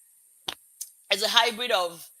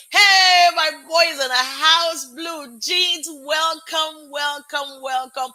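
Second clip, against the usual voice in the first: loud, high hey easing into repeated welcomes; big hollered welcome; excited greeting; 5 semitones higher, 6 dB louder, slower than usual. Real, not acted. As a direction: hail your friends as they arrive. Greets friends joining the stream.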